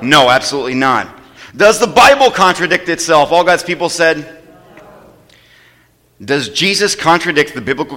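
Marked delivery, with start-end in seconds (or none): 1.6-4.3 louder, higher call to the congregation; rousing question. Real, not acted. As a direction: call out for the answer. Preacher calling for a response.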